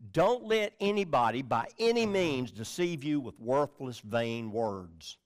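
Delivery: "anybody" and "any means" stressed; emphasis put back. Shown as a demonstration. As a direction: punch each "any", then come down on "vain words". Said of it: "put the emphasis back".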